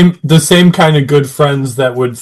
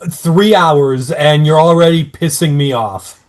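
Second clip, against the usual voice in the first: mock annoyed Spike; 3 semitones higher than usual. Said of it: "And he's like".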